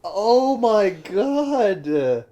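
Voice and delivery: stunned disbelief. Real, not acted. Reacts to shocking plot twist.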